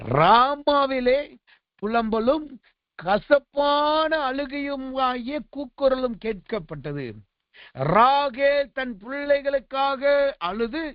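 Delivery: slow, solemn Bible reading; scripture reading. Acted. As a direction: read the verse slowly and gravely. Reads Jeremiah 31:15 aloud. (மெதுவான வேத வாசிப்பு)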